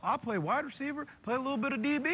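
a touch of slangy recruit talk; James Rogers impression. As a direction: recruit answering the coach in a mild imitation. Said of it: "I love the impersonation".

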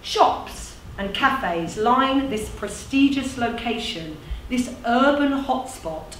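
deliberate recital, key words set apart; measured, performed storytelling; monologue narration. Acted. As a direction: present the place like a proud tribute.

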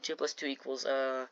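slow, low, dopey working-out; brain-dead mock. Mocking a girl doing math, dim and slow. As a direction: drag it out as if the brain stalled. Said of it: "full brain dead mode".

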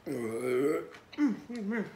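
savoring mmm. Real, not acted. Tasting food on camera.

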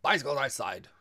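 loud, high, brisk announcement; hearty young visitor. A narrator's reading. Girl reports on the bicycles, loud and hearty. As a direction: chime in boisterously.

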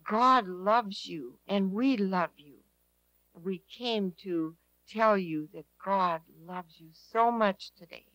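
slow, gentle words to a dying man; slow tender reassurance. Retold or imitated. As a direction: reassure him, slowly and tenderly. Speaking to comatose man slowly.

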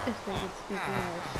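talking with the hiccups; words broken by a hiccup. Real, not acted. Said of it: "Excuse me, I have the hiccups".

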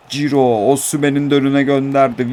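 play-by-play rising with the attack; live football commentary. Pretend. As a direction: narrate your own match like a commentator.

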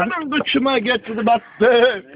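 slow, loud cry of pain; acıyla bağırma. Real, not acted. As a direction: drawl it out, hurting and loud. Something pricked him while sitting. (acıyla uzatarak bağırma)

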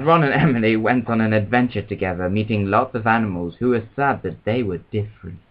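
put-on measured children's storybook reading; story narration. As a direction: read it like a gentle bedtime story. Reads a children's story aloud.

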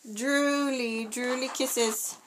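put-on high, slow cooing baby talk; drawn-out sing-song drooly kisses. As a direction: coo it sweetly to a baby. Cooing at the doll while it drools.

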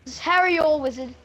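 playful mock English accent. Showing off a wizard impression to friends, in a mock English accent. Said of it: "I do the best English accent".

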